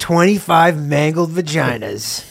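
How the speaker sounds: slow, grand boardroom pitch; mock executive pitch. Voicing Nike exec pitch.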